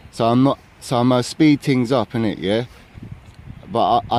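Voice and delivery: slightly winded talk; out of breath. Real, not acted. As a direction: speak while catching your breath. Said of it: "I need to catch my breath".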